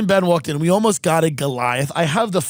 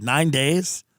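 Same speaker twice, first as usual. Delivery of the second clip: rising, disbelieving question on "Nine days?"; incredulous echo. Retold or imitated. Echoing the spider seller's answer, mildly stunned. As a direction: echo "Nine days?" back, not believing it.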